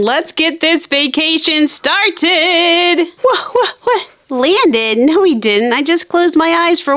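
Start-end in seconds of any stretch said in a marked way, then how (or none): 3.2-4.1 startled laugh. Acted. Waking up surprised, laughing.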